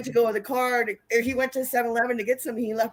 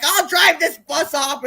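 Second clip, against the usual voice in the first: put-on louder, higher, drawn-out drunken boast; mock drunk threat; 5 semitones higher, 6 dB louder, slower than usual. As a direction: imitate a drunk making threats. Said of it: "like, Hack was drunk".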